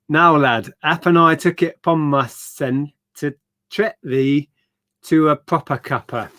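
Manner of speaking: a hint of Yorkshire, slowish; lightly put-on Yorkshire voice reading a note; Yorkshire accent. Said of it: "Worst Yorkshire accent ever".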